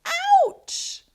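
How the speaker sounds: high, loud yelp of pain; sharp cry of Ouch with a big exclamation point; yelled Ouch. Shown as a demonstration. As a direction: really yell it like a stubbed toe. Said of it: "So she really yells it".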